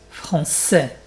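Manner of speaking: français with a distinct hissed s before ais; double-S sound. Shown as a demonstration. Teacher asks learners to hear it, ss in français. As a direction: make the ç of français a clear ss. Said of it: "tu entends les deux S".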